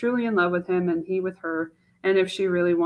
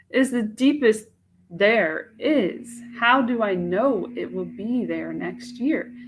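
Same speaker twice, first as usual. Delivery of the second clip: Mache; 3 semitones higher than usual. Acted. Young woman doubting a marriage proposal to herself, in an anguished voice.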